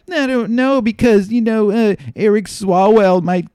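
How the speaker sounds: high-pitched, hedging mock voice; imitated worried sources. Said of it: "But they're like".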